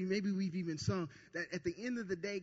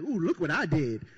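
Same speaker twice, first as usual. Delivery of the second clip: proud exclamation; 7 dB louder than usual. Retold or imitated. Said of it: "and you were like".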